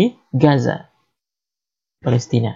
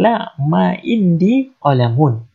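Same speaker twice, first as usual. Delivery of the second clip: slow model answer; much slower than usual. Shown as a demonstration. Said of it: "kita mengatakan".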